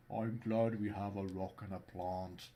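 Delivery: put-on slow Scandinavian accent; even Nordic lilt. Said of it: "that's why I'm doing the Scandinavian accent".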